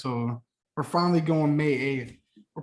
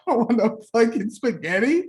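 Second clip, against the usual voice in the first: louder, higher insistence; 7 semitones higher, 5 dB louder than usual. Real, not acted. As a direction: insist loudly. Emphatic rant about food.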